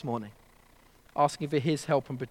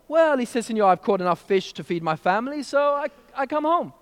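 put-on Mexican accent; 5 semitones higher than usual. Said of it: "Mexican accent".

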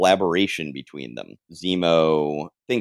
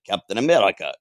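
put-on German accent slipping into Russian; botched German accent, oddly Russian; failed German accent; faster than usual. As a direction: attempt a German accent, landing nearer Russian. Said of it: "that's more Russian".

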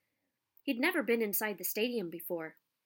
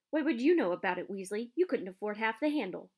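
snapping back; 3 dB louder than usual. Acted. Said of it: "Malfoy snapped back".

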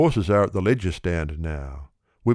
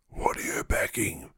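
hushed tipster whisper; 7 dB quieter than usual. A narrator's reading. Tout whispering to the oracle at the ring. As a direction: lean in and whisper the question. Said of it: "he says".

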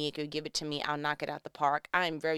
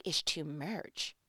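mock overwhelmed; 3 semitones lower, 7 dB quieter, slower than usual. Acts herself overwhelmed by little things.

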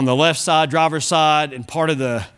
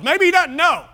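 mock wonder; 10 semitones higher than usual. Joking about oblivious driver.

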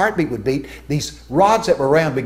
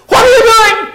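much higher, much louder yell of alarm; startled scream; 11 dB louder than usual. Retold or imitated. Preacher startled by an angel at 2 AM, screaming. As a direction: shout it out, caught off guard. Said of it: "and I scream at him".

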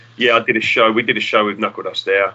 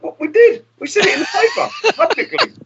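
much higher, strained cry of disbelief; indignant protest. Retold or imitated. Band protesting to Jack that they thanked him, high outraged cry. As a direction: protest your innocence, squeaky and outraged. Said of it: "we're like".

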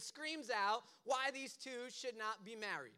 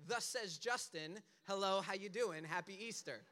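mock prophetic announcement; 3 semitones lower than usual.

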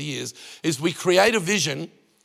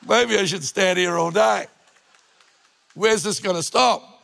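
amazed outcry; 2 semitones higher, 4 dB louder than usual. Retold or imitated. Overwhelmed retelling of generous gifts.

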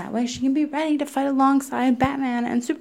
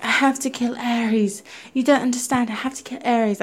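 lightly put-on British accent imitating the heroine; 2 semitones higher than usual. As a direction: mimic her insistence in a mild British accent. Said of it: "doing a British accent".

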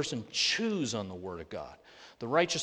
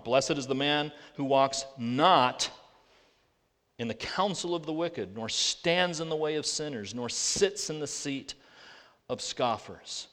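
scripture reading. Acted.

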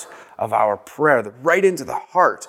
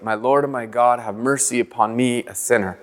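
1 prayerful cadence; 2 semitones lower than usual. Shown as a demonstration. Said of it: "get into the cadence of it".

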